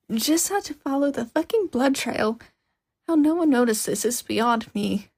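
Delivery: a lightly voiced irritated girl grumbling; ranting. Hatsume ranting at the phone about the blood trail, lightly voiced and irritated. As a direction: mutter a rant under your breath.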